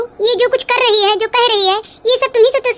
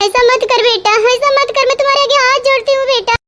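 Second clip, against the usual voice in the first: tearful begging. Acted. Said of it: "इतनी acting करती हैं आप।".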